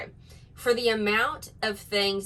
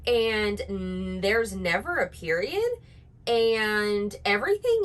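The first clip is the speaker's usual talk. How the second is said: mock influencer uptalk. Shown as a demonstration. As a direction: parody of influencer uptalk on "everything you say has a question". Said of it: "No, I did that wrong".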